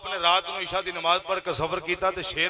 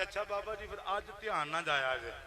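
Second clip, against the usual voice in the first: hushed, smiling word of advice; smiling reply; 11 dB quieter than usual. Retold or imitated. Bahu answering the doubting saint, softly smiling. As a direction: say it softly with a smile. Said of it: "ਮੁਸਕਰਾ ਕੇ ਕਹਿਣ ਲੱਗੇ".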